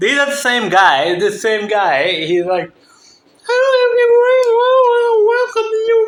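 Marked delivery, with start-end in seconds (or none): 3.5-5.9 put-on girlish, high schoolgirl voice. Speaker mocks how a man who posts opens his greeting, using a mock schoolgirl-like voice. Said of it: "schoolgirl like voice".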